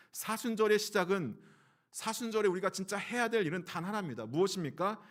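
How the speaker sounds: preaching at full force. Acted. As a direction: press the point home to the church. (강하게 외치는 설교조로)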